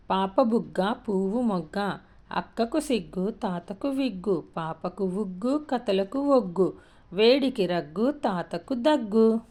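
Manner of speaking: slow, measured sing-song verse; rhyme recitation. Shown as a demonstration. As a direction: recite the rhyme slowly, stretching line endings. Reads a children's rhyme.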